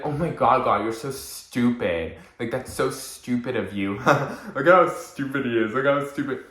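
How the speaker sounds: mock the clumsy friend with a laugh in the middle; lightly voiced mean friend jeering. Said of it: "they'll usually be like".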